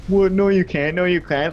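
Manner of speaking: high, loud disbelief; disbelieving. Retold or imitated. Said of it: "They're like".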